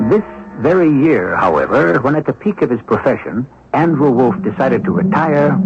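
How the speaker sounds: measured radio narrator telling the tale; story narration. A narrator's reading. Host introducing the retired thief, wry storytelling. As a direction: lay out the backstory with a wry edge.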